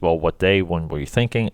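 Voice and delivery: imitating a mildly unenthusiastic reply. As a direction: retell his reply with little enthusiasm. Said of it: "He didn't sound enthusiastic".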